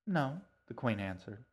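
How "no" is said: higher, lightly amused no; hint of a smile. A narrator's reading. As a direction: let a smile creep into it. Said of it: "the hint of a smile in her voice".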